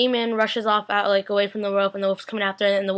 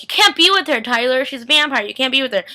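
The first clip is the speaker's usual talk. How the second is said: insistent warning, higher and louder; urgent protest; 3 semitones higher, 5 dB louder than usual. Acted. Miss Lockwood warns Tyler off a vampire, urgent protest. Acted mother's warning to son.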